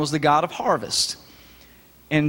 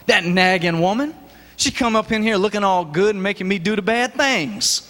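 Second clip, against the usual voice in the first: Samson blaming Delilah; 3 semitones higher than usual. Acted. Samson blaming Delilah, mock complaining. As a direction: whine it like he's blaming her. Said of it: "he could have said".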